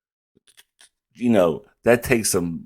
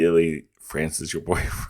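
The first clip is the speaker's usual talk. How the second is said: ordinary talk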